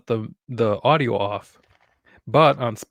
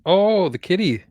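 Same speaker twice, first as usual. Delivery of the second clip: pet talk; 8 semitones higher, 4 dB louder than usual. Real, not acted. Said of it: "we change our voices when we talk to our animals".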